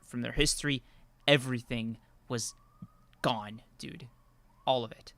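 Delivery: lightly done mystery-video narrator; Lost Media YouTuber voice. Acted. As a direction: tell it like a spooky internet documentary. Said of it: "I'm gonna pull out my fucking Lost Media YouTuber voice".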